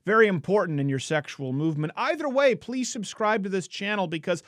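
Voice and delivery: high sarcastic fake-sweet address; mock the audience sweetly. Sarcastic mock channel outro.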